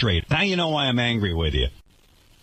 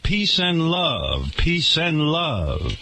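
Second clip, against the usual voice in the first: slow, higher mock-blissful chant; mock serene guru; 4 semitones higher, much slower than usual. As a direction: drawl it out like a lazy beach guru. Mocking Russell Simmons on beach.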